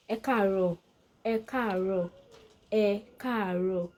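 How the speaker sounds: polite form "ẹ káàárọ̀", the "ẹ" said first; polite Yoruba greeting. Shown as a demonstration. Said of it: "That's the polite way".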